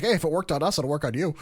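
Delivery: badly faked Nigerian accent; hammy, unconvincing Nigerian accent; botched Nigerian accent. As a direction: attempt a joking Nigerian accent and miss. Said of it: "I can't do a Nigerian accent".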